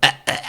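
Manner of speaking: short broken imitated "eh" sounds; halting voice test. Preacher showing his lost voice coming back, halting test sounds. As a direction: push out the voice in little bursts. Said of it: "이렇게 나가더라고".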